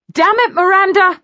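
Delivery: plaintive cry, pitched high and loud; aggrieved, pleading outburst. A narrator's reading. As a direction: whine it up at his sister. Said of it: "Brandon began in a plaintive voice".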